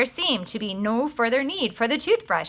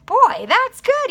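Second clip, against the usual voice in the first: much higher, louder, slow savoring exclamation; delighted; 14 semitones higher, 7 dB louder, slower than usual. A narrator's reading. John finishes his juice and savors it, delighted and loud. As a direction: relish every word of it.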